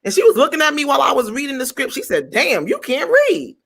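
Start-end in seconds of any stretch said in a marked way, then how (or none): 2.3-3.5 blunt high diva. Retold or imitated. Blunt director voiced high.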